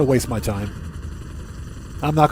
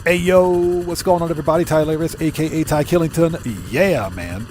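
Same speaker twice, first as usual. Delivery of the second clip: Tylarius. Shown as a demonstration. Streamer greeting everybody with his intro, in an impression. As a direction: imitate his level, monotone sign-on, drop on the last words. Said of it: "here's my Tylarius impression".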